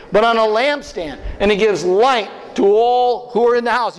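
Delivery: scripture reading. Shown as a demonstration. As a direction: lead the reading in a steady voice. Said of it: "read on, with me".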